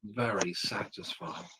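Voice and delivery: slow, breathy whisper of the punchline. Acted. Teller whispers the punchline to friends. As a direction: hush it out slowly like a dirty secret.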